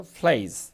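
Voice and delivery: প্লেস said slowly and clearly as "pleiz", a teacher's model; teacher modelling প্লেস for students; careful pronunciation. Shown as a demonstration. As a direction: spell out প্লেস with a long "ei". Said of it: "উচ্চারণ কি বললাম বলুন তো".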